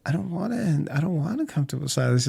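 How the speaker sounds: a lightly put-on sultry English voice; seductive actress. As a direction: coo it like a flirty actress. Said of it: "she's all seductively this English actress".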